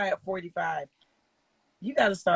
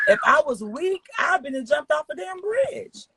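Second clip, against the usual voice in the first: raised emphatic voice; 9 semitones higher than usual. Real, not acted. Emotional confession.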